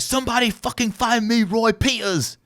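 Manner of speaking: hammed-up demand for help; mock demand. Stylist calling for Roy Peters, hammed-up and high. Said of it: "So he's like".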